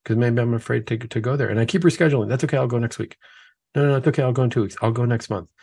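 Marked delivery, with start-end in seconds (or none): 2.3-5.5 lightly raised, casual brushing-off voice; breezy excuses. Retold or imitated. Putting off confession to himself, breezy excuse voice. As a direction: shrug it off, no big deal, next week.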